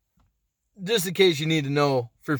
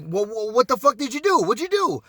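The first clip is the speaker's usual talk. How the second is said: stammering, higher-pitched acted disbelief; freaking out; 5 semitones higher than usual. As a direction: replay yourself desperate to hear the answer. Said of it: "like, I'm freaking out".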